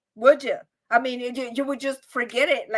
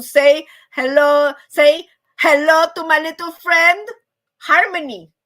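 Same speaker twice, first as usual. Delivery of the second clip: loud, stretched-out movie catchphrase; Al Pacino; 3 semitones higher, 9 dB louder than usual. Acted. Host quoting a film line to introduce the harmony friend, loud impression. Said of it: "Not the other friend that Al Pacino had".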